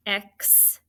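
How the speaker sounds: "Expand" as two separate beats, ex, pand; split into syllables. Shown as a demonstration. Teacher scooping syllables for students to write, "Expand" split in two. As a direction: break "Expand" after "Ex" with a clear gap. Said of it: "so scoop the syllables".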